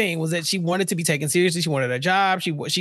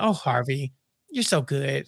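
mock swoon; 7 semitones lower, 5 dB quieter than usual.

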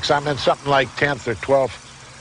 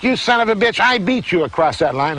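mock indignant shout; 7 semitones higher than usual. Retells John's indignant outburst.

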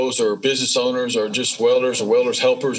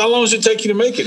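astonished question; 11 semitones higher, 5 dB louder, much faster than usual. Retold or imitated. Buyer astonished at the low price.

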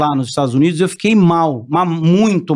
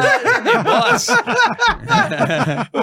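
high laugh. Real, not acted. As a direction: crack up laughing. Laughing at the low salary.

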